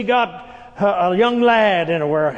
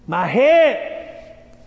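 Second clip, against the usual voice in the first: put-on louder, higher child's cry of pain; 4 semitones higher, 4 dB louder than usual. Sick boy crying to his father in the field, anguished.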